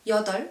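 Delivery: 여덟 as 여덜, the B silent; 여덟 with only the L of the final pair; only L pronounced. Shown as a demonstration. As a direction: end 여덟 on L. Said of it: "you only pronounce the L".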